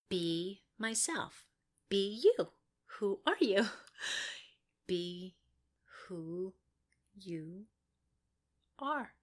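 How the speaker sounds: soft, slow murmur to herself; quiet self-coaching. Real, not acted. Coaching herself quietly before the line, fading away. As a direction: talk yourself down gently, fading.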